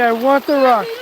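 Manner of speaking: each word clearly set out for the dog to copy; modelling a phrase for the dog. Shown as a demonstration. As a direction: stress on want in I want the rock. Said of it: "Let's hear you say".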